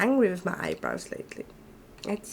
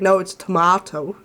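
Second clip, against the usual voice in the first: Aussie tomato; 5 dB louder than usual. Retold or imitated. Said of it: "she was like".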